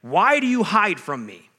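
lament cry. Shown as a demonstration. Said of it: "Psalm ten says this".

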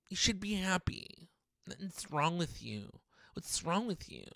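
small, distant voice chiding gently; nagging well-wisher. Acted. Voicing someone urging him to be happy.

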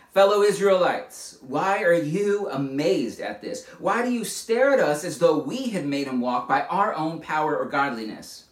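earnest read-aloud of Peter addressing the crowd; scripture reading. Acted. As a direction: proclaim it like a preacher reading the text. Reads Peter's sermon from scripture.

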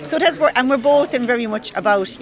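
laughing while joking; chuckling through the words. Real, not acted. Joking about long-distance relationship.

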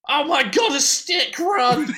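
high, squeaky panicked spider. Acted. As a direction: shriek it like a tiny scared spider.

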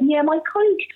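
mild imitation of a kind clinician; lovely and kind. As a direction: gently suggest it, imitating a kind doctor. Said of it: "she was so lovely and kind".

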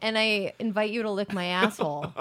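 lightly put-on Midwest accent; Wisconsin accent. Shown as a demonstration. Voicing the senator telling them off, Wisconsin accent. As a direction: deliver it as a folksy Wisconsin invitation. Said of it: "Your back home Wisconsin accent".

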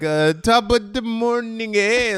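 lightly put-on, slow Irish greeting; mock Irish lilt, badly done; bad Irish accent. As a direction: attempt a corny Irish accent, drawn out. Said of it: "Oh, the Irishman is here".

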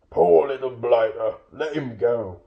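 emphatic troll sympathy; pitying troll. Acted. Full-bellied William urging Bilbo's release, pitying troll. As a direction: plead his case in a troll's voice.

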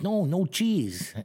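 slow, high pleading no; high slow whiny mock refusal. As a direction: drag it out like a fussy little guy. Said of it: "he's like".

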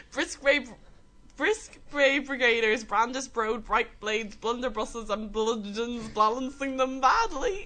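loud, slow, careful put-on D4 accent; hammed-up Dublin D4 voice, pitched a little up. Contestant reciting a tongue twister slowly in a loud D4 accent. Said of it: "Do I do the deep accent again?".

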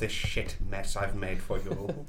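spooky ghost voice. Acted. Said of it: "Why are you doing this voice".

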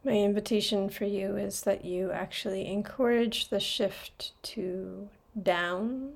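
calm, measured meditation voice with long pauses; guided meditation. Real, not acted. Podcast host guiding listeners into their breath, calm meditation voice. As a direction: guide listeners gently, leaving space between phrases.

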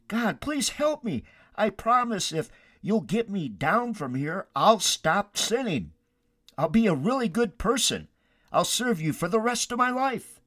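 high-pitched acted begging; pleading promises pitched well up; desperate pleading. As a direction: bargain earnestly for rescue. Jack pleads and bargains with God.

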